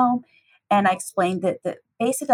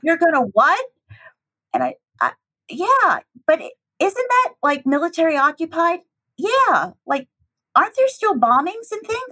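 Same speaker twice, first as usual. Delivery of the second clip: much higher, alarmed disbelief; mock-alarmed relatives, pitched way up; incredulous family; 8 semitones higher than usual. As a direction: play the shocked family asking questions. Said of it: "they look at me and they're like".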